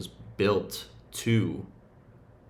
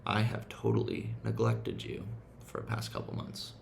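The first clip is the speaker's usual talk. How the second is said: hushed realization; 6 dB quieter than usual. Retold or imitated. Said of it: "I'm like".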